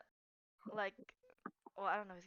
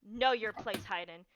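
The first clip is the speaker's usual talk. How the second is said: yelling threat. Acted. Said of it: "you start to yell".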